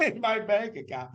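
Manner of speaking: high, slow words through a laugh; laughing in disbelief. Real, not acted. Laughing at old money woes.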